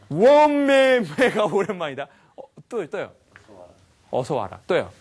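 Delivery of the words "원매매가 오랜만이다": high, loud, stretched first word; hammed-up country mother's cry, slowly drawn out; mock exclamation. Speaker tries out a listener's guess, mock motherly exclamation. Acts out the audience's suggested meaning.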